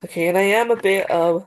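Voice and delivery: congested, stuffy-nosed voice; blocked nose. Real, not acted. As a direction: talk through a blocked nose. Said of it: "I sound nasally".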